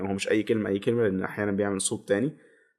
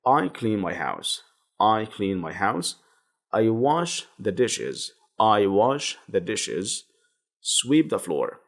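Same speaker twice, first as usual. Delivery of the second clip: slow, careful dictation pace; slow model reading; much slower than usual. Shown as a demonstration. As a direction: read it out slowly for learners to repeat. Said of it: "teacher models sentences".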